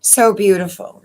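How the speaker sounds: real emotion breaking through, spoken in a hushed whisper; choked up. Real, not acted. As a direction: pause and whisper through rising tears. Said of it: "I almost started to cry".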